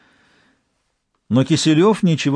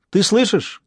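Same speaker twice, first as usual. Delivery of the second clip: higher, calling out to another room; calling from the hallway; 8 semitones higher, slower than usual. A narrator's reading. Eva calls from the hallway to the detective, calling out. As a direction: call out so he hears you from the hall. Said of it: "крикнула из прихожей Ева".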